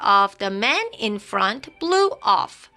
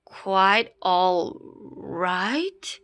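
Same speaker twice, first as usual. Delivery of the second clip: slow wondering disbelief; 2 semitones lower, much slower than usual. Acted. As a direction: turn the words over slowly. Repeating to himself.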